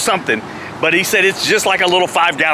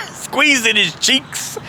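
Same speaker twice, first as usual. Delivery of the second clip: laughing; 6 semitones higher, much slower than usual. Real, not acted. Laughing while retelling strain.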